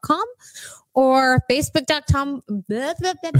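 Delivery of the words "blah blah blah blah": giggling through blah blah; dismissive laughing blah. Real, not acted. Skipping rest of web address.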